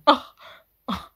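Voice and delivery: mimicking a dismissive "Ugh, ugh"; mock dismissive groan. Reactor mimicking the partner's dismissive groans. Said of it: "your partner's going".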